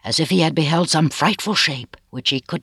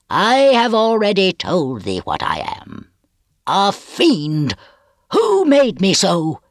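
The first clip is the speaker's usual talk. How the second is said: bitter accusation; 6 semitones higher, 3 dB louder, slower than usual. A narrator's reading. Villain demands who made him fiend.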